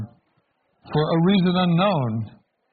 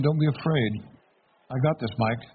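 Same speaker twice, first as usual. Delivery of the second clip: soft, calm and sure, a touch quieter; confident, sincere reassurance; 3 dB quieter than usual. Pretend. Jesus looking down mercifully at Mike, speaking softly and confidently. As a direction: gently reassure him that all is in hand. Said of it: "with a confident expression, with a sincere".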